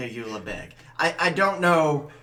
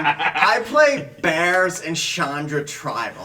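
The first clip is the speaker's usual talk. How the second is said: laughing; 3 semitones higher, 6 dB louder, slower than usual. Real, not acted. Joking about his weak decks.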